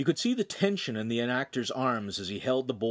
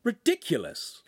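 inner grumble; 7 semitones higher, slower than usual. Acted. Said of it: "Lincoln thought".

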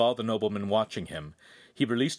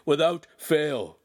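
dazed repeating; 6 semitones higher, 5 dB louder, slower than usual. A narrator's reading. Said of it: "he kept repeating".

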